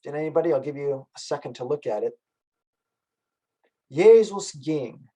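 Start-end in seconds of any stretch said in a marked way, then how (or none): 3.9-5.1 slow spoken demo. Shown as a demonstration. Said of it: "Notice what Bach does on the word Jesus".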